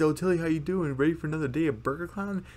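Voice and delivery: lightly voiced chipper greeting; cheerful character voice.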